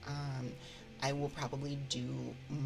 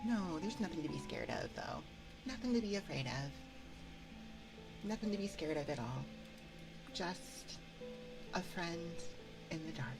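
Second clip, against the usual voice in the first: playfully creepy reassurance; 5 dB quieter than usual. Pretend. Streamer teasing listeners there is nothing scary, soft eerie reassurance. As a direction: coax gently, fading almost to a whisper. Slips back into roleplay character, reassuring.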